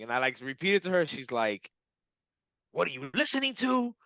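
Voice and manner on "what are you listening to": high-pitched, incredulous mimicry; creeped-out partner. Partner questioning what he hears, imitated creeped out. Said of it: "she's a little creeped out".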